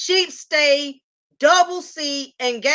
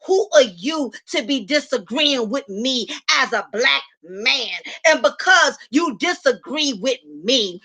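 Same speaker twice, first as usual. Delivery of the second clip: mocking angry panel host. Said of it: "all five dudes are gonna come in and say".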